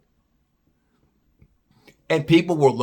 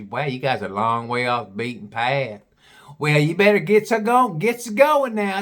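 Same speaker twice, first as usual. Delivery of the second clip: imitated Southern gal giving advice; deep Southern accent. Gal warns visitors about dark, mock Southern accent. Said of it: "She had a real deep Southern accent".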